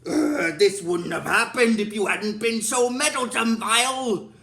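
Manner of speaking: exasperated villain impression; Zed. Imitating Zed blaming Vile for the defeat, exasperated. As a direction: growly groan into a theatrical scolding. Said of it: "And then Zed's like".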